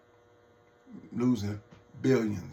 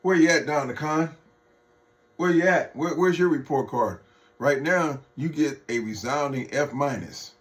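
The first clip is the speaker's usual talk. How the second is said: taunting shout; 4 semitones higher, 5 dB louder than usual. Real, not acted. Taunting Trump on his record.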